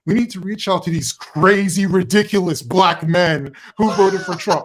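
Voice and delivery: mocking, emphatic outburst; mock exasperation. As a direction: imitate a scornful TV plea, punching the insults. Mocking a TV host's appeal.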